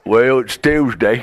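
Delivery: slow southern hillbilly answer; lazy southern accent, drawn out; mock southern accent. Playing mom answering the son, in a slow southern accent. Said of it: "with a southern accent".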